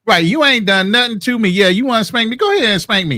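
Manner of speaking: lightly voiced sassy kid daring mom; defiant little boy. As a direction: dare your mom to do it.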